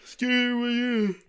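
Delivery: very high, slow squeak; silly high-pitched squeak; squeaky tease. Acted. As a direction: answer in a tiny squeaky voice. Squeaky high playful reply.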